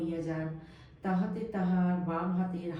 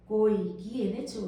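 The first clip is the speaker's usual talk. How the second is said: put-on hungry child; 3 semitones higher, 4 dB louder than usual. A narrator's reading. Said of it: "ক্ষুধা পাইয়াছে, মাস্টারকে বলিতেছেন".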